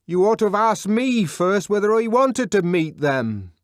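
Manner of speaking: high, loud indignant reply; indignant shout from inside; shouted retort. A narrator's reading. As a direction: throw it back through the door. Shouted argument through a door.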